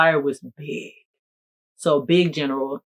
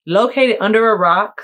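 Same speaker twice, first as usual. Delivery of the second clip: louder, higher; mock dramatic; 5 semitones higher, 6 dB louder than usual. Answering where she is, hammed-up and loud. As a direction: ham up the answer.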